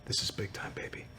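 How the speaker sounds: unvoiced whisper, trailing away; hushed in-character whisper; whispered menace. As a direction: whisper it low-key, in character. Narrator voices a character's threat.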